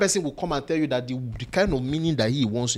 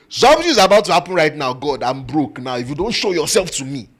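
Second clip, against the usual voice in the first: louder, pouty mock threat; preacher mimicking a pouting listener threatening God; mocking Lasisi mouth; 8 dB louder than usual. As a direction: jut the lips and threaten God. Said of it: "With your mouth like Lasisi".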